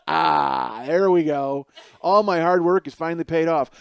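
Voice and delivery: loud, smug and self-satisfied; pleased with himself, leaning back; smug satisfaction. Acted. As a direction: lean back and gloat loudly.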